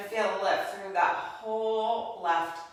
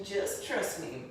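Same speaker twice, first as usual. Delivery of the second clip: "Just trust me." lower, softer and slow; repeating the intonation; 6 semitones lower, 9 dB quieter than usual. Retold or imitated. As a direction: echo "Just trust me." low and hushed. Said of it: "Did you hear that little intonation?".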